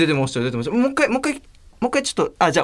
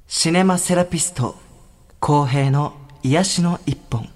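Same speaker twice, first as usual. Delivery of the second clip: echo; 4 semitones lower than usual. Acted. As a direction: voice with heavy reverb. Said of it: "すごいエコーかかってんだけど".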